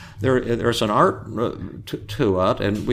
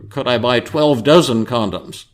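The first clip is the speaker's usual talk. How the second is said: raised voice, pushing the question; louder demand to the druggist; even louder; 2 semitones higher, 5 dB louder than usual. Retold or imitated. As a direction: make the whole store hear. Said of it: "asked in an even louder voice".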